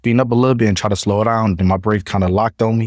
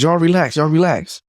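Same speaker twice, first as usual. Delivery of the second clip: retold yelling; 8 semitones higher than usual. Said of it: "Yeah, I was yelling".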